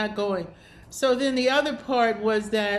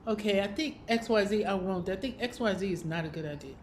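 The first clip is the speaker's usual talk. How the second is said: quiet self-talk; 6 dB quieter than usual. Shown as a demonstration. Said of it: "And then you say".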